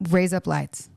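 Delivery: "Raise up lights" run together like Australian "razor blades"; Australian accent demo. Shown as a demonstration. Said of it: "razor blades in an Australian accent".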